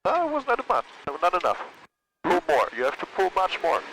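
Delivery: urgent instructor. Real, not acted. Instructor urging more flare.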